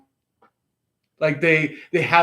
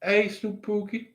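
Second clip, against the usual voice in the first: high, eerie teasing hello; creepy greeting; 7 semitones higher, 4 dB quieter than usual. Retold or imitated. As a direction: call out sing-song and spooky. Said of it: "or they could be like".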